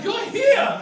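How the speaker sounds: very high, loud shout; mock freak-out. Michigan worker freaking out at the tourists, mock shouting. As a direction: yell it as if freaking out, hammed up. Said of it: "She's freaking out".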